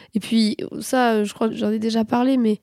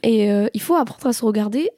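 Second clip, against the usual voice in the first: talking through a blocked nose; stuffy nose, speaking nasally. Real, not acted. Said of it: "J'ai le nez bouché, donc je parle absolument du nez".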